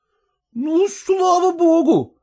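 high, slow sigh of relief; relieved son-in-law. Acted. Son-in-law calming down at the news, high and relieved. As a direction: breathe out the worry, still high. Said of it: "несколько успокоившись".

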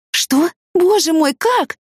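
high, shocked gasp of a question; rising shocked disbelief. Acted. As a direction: she can't believe what she hears. Shock at his confession.

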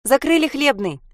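put-on high child calling down from above. Sasha calls down to the crowd from the shoulders. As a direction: announce it loudly to the people below. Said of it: "сообщила она вниз".

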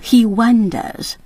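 he wonders said slowly, leaning on he; slowly stressed. Shown as a demonstration. Host singling out the key phrase for learners, slow and deliberate. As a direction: draw out he wonders to point at the phrase. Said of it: "这里面用了一个字".

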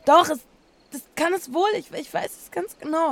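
loud, high, insisting she is right; high, loud and stubborn; insistent outburst. Acted. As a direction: push back hard, voice climbing. Insists against friend's doubt.

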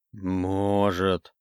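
low, soft grave whisper; undead whisper. A narrator's reading. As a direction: breathe it from the grave. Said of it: "Голос мертвеца перешёл на шёпот".

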